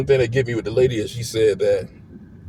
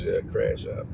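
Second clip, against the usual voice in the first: breathy whispered aside of a friend's phrase; whispering a pal's catchphrase; whispered quote; 2 semitones lower, 7 dB quieter, slower than usual. Retold or imitated. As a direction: drop to a whisper for the borrowed phrase. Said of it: "In Eddie's words".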